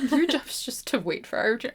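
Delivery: lightly hammed sarcastic echo; mocking repeat. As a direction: parrot his smug line back with a sneer. Re-quotes Kristoff's line to mock it.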